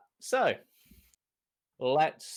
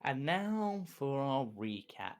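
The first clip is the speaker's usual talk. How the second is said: usual speaking voice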